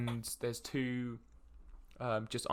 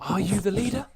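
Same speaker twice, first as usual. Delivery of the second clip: raised, louder noble voice; inquiring noble; 7 semitones higher, 6 dB louder than usual. Acted. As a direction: put the question squarely to the party's leader. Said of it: "over to Fulgrim and goes".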